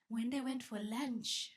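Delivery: slow, deliberate statement; slow emphasis. Shown as a demonstration. Telling the crowd slowly what she did.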